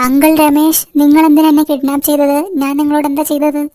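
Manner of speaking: put-on a scared boy demanding answers from his kidnapper; kidnapped boy. Kidnapped boy confronts his captor.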